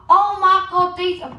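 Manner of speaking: excited mum. Retold or imitated. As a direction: exclaim like a delighted Cockney mum. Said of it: "And she's like".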